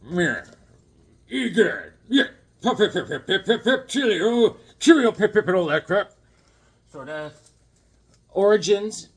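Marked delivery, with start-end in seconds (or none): 0.1-6.1 high, loud toff voice with laughs; hammed-up British toff babbling cheerio; mock British. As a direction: lay on a silly posh British accent. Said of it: "He's like".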